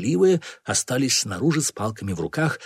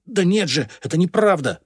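high-pitched, raised denial; denying; 7 semitones higher, 4 dB louder than usual. A narrator's reading. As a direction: insist on innocence in a high voice. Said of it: "продолжал он отрицать". (отчаянное отрицание)

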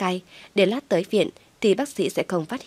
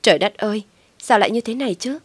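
put-on worry; 3 semitones higher than usual. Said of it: "Thu tỏ vẻ rất lo lắng".

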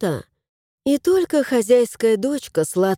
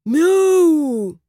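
cat meow; 5 semitones higher, 4 dB louder than usual. A narrator's reading. Cat meows.

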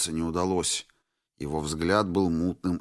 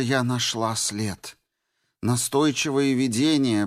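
otherworldly medium voice, higher; seance medium voice; 5 semitones higher than usual. Acted. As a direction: speak like a seance medium in trance. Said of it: "произнесла своим потусторонним голосом медиума".

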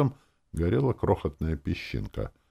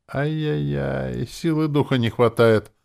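mock tutting; 9 semitones higher, 4 dB louder than usual. A narrator's reading. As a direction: scold him like a naughty child, mockingly. Герой издевается над магом. (протяжное насмешливое «ай-яй-яй», выше)

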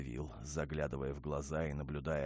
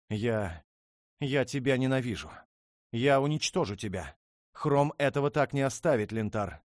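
high, loud hateful scream; 10 semitones higher, 11 dB louder than usual. Acted. Princess screams hatred at her husband. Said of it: "закричала она".

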